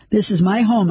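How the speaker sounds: words pushed through clenched teeth. Acted. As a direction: speak with jaw locked tight. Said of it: "my teeth clenched".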